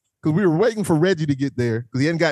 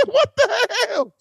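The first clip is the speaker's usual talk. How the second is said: retold astonishment; 14 semitones higher, slower than usual.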